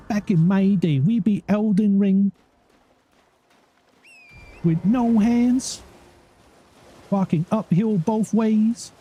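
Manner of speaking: put-on high, slow creaky old-timer; mock old geezer reminiscing; old man voice. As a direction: drag it out like a grumpy grandpa.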